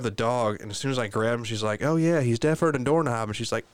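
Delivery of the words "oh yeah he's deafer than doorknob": higher-pitched, tossed-off quote; grandma's parting remark. Retold or imitated. Imitating grandma as the dog is grabbed, offhand. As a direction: imitate a breezy handover line.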